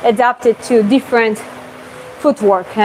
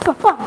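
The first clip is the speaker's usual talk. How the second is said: imitated punch sounds; 6 semitones higher than usual. Shown as a demonstration.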